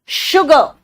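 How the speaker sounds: शुगर with a clear sh sound; model pronunciation. Shown as a demonstration. Teacher modelling the sh sound for students, careful pronunciation. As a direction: say शुगर crisply for students to copy. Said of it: "मेरा नकल करने की कोशिश करना".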